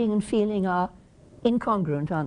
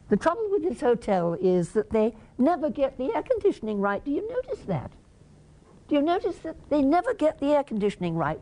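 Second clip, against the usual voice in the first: mock complaining; 4 semitones higher than usual. Shown as a demonstration. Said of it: "So let me do some complaining".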